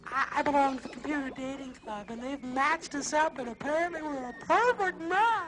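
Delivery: comic lady caller. Acted. Comic caller voices a woman.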